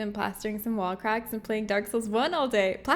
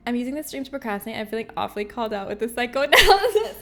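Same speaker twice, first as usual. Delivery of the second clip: laughing read-out; 7 dB louder, faster than usual. Real, not acted. Reading chat's message aloud laughing.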